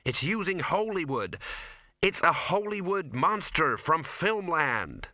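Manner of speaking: high, drawn-out insistence; insistent young woman. A narrator's reading. Ginger explaining the monster, high insistent voice. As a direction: spell it out in a high voice.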